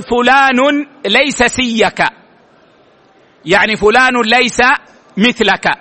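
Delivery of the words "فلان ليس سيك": example phrase. Shown as a demonstration. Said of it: "فتقول".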